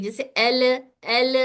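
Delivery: "एल" held steady without a bounce; steady "एल", no echo; held letter. Shown as a demonstration. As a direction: hold "एल" at the tongue, voice flowing. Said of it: "हलने से कलकला हो जाता है".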